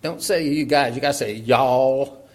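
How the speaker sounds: loud mock parental correction; firm, loud voicing of a correcting parent; scolding parent. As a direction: lay down the law like a parent. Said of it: "Did your parents say".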